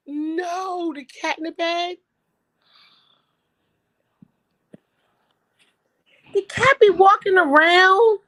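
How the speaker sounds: high, worked-up protest, slowing on key words; disgusted rant. Real, not acted. Objecting to a cat in the bed, high disgusted rant. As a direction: squeal your disgust at the idea.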